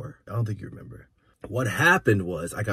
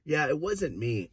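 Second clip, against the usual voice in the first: smug quiet denial; 3 semitones higher, 5 dB quieter, slower than usual. Retold or imitated. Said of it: "I looked at him like".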